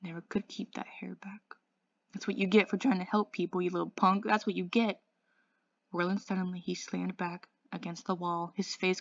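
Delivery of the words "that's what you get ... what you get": loud, bitter grief. Acted. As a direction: spit it out through grief. Dally's grief turning to anger.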